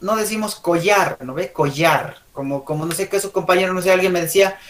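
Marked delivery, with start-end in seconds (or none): 0.5-1.2 "collar" said as "co-yar"; wrong-example "collar" with a Y sound. Shown as a demonstration. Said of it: "la doble L lo vuelven en Y". 1.5-2.2 "Collar" said as "co-jar", Argentine style; "Collar" with a buzzed Y. Shown as a demonstration. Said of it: "la doble L lo vuelven en Y".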